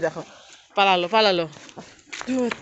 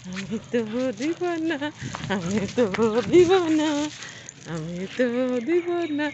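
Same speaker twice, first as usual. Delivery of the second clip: 1 teasing pet; 4 semitones higher than usual. Pretend.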